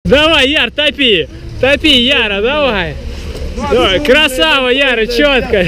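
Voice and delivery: high-pitched cheering. Real, not acted. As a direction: pump him up through the last reps. Cheering friend through pull-ups.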